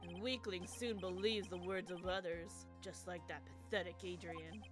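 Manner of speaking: sinister bro voice. Acted. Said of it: "the bro voice, but more sinister".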